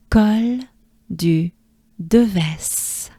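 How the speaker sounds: Col du Deves word by word, with pauses; slow separated Col du Deves for repeating; French model pronunciation. Shown as a demonstration. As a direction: open O in Col, rounded du, then "deu-vess" for Deves. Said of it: "Let's do it together".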